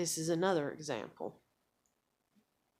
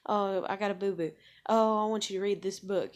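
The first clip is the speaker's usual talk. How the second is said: put-on whiny toddler; 3 semitones higher, 5 dB louder than usual. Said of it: "them tugging at me".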